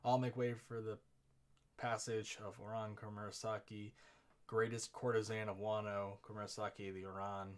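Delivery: loud proclamation; herald calling out. Acted. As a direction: announce her passage to the crowd. Announcing the courtesan procession.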